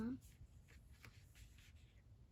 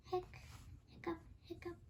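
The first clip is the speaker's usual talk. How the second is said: soft, breathy hiccup sounds; whispered hiccups; 3 semitones higher, 4 dB quieter, much faster than usual. Acted. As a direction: hiccup softly under your breath. Pete hiccups.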